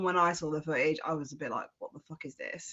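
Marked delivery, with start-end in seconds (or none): 1.8-2.7 stunned hush. Retold or imitated. Her own stunned reaction.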